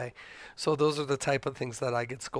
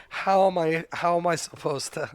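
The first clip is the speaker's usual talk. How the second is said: incredulous protest; 4 semitones higher, 4 dB louder than usual. Retold or imitated. Husband retorting to wife.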